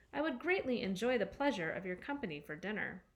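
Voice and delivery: a hint of stiff, formal politeness; very proper voice. Boy inviting the robot to dinner, mock-proper and formal. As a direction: lightly play it overly polite and proper. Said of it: "In a very proper voice".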